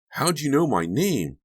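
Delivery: put-on high-pitched child's questioning; suspicious little boy. A narrator's reading. Donnie questions the friendly stranger, high suspicious child voice. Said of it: "Donnie asked suspiciously".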